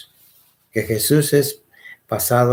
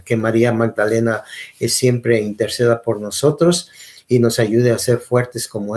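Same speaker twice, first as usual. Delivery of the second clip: prayer. Acted. Closing prayer to God.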